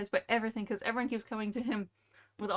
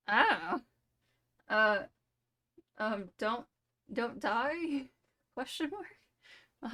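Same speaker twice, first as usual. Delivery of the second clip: put-on baffled kid; 2 semitones higher, much slower than usual. Kid's baffled reply.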